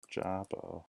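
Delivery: "Jabberwocky" softly, broken up with pauses; syllable by syllable. Shown as a demonstration. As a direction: quietly sound out "Jabberwocky" in pieces. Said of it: "four syllables column".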